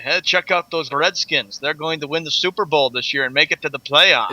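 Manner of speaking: put-on lightly done, poor British accent; a half-hearted British impression of a friend; Gary imitation. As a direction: attempt a British accent, not very well. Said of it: "Was that your Gary imitation?".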